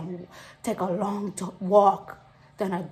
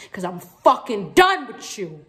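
angry; 4 dB louder than usual. Acted. Breakup tirade reaching its climax.

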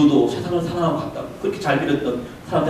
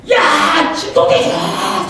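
someone yelling his name across the room; calling out; 12 semitones higher, 6 dB louder, much slower than usual. Retold or imitated. Man calling the preacher's name, loud call. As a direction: shout the name to get attention. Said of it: "소리 지르면요".

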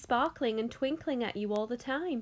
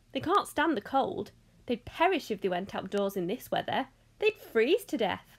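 lightly voiced eccentric host; lively, emphatic tour guide; bustling Mister Wonka; 3 dB louder than usual. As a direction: usher them along, explaining brightly. Voices Mister Wonka ushering the group.

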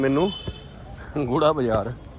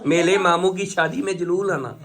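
lightly voiced toddler lisp; little girl voice. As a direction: speak as a small child, r turned to l. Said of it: "ਇਬਾਦਤ ਵੀ ਆਪਣੇ ਮਾਮੇ ਦਾ ਵਿਆਹ ਦੇਖੂਗੀ".

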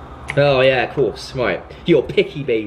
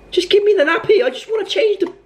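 exasperated. Real, not acted. Chasing nappy, exasperated.

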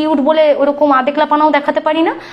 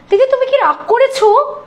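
higher, sweet put-on voice of the other woman; sugary fake concern; 8 semitones higher than usual. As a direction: mimic her syrupy innocent question. Quoting the woman's sweet message. (অন্য মহিলার ন্যাকা মিষ্টি গলা নকল করে)

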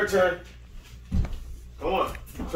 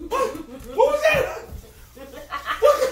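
laughing surprise; 5 semitones higher, 4 dB quieter than usual. Real, not acted. Shocked laughing mother.

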